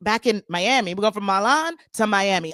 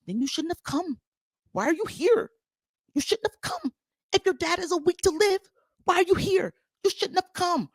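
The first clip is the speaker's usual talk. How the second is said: higher, snooty cold put-down; catty Larsa mock; 9 semitones higher, 3 dB quieter than usual. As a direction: look down your nose and dismiss her. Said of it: "And Lars is like".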